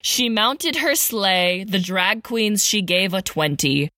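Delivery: rhythmic storybook read; sing-song Christmas verse recital; poem reading. A narrator's reading. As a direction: read it like a holiday poem to kids. Reads Christmas poem parody aloud.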